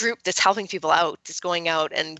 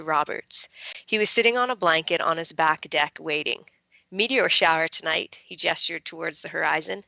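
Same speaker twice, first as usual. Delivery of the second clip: calm, measured reading aloud; story narration. Acted. Author reading her novel passage to listeners, calm narration. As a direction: read it gently, letting the night scene settle.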